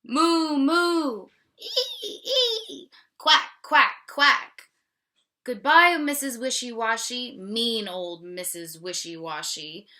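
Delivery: loud, high moos, squeals and quacks; animals calling goodbye. Acted. The animals shout goodbye to Missus Wishy-Washy, loud. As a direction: holler farewell like fleeing animals.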